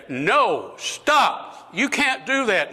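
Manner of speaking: acted outcry of refusal; vehement protest. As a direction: pitch leaping high in objection.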